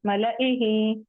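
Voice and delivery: मलाइही with no long "laa"; मलाइही as "mala-ihi", alif silent; short la. Shown as a demonstration. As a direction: recite मलाइही, keeping "la" short. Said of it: "इसको मला नहीं पढ़ेंगे".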